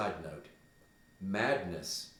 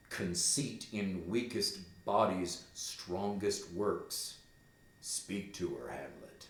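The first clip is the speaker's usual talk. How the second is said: ghost urging. Acted. Teacher voices the ghost at length.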